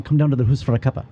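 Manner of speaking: attempted Scottish accent, brisk. House parents inviting students round, attempted Scottish accent. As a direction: imitate Scottish hosts with a light accent. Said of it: "Scottish is really hard for me".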